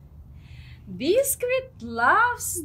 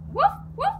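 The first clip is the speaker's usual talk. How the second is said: high puppy yip; 13 semitones higher than usual. Pretend. Voicing the dog Biscuit.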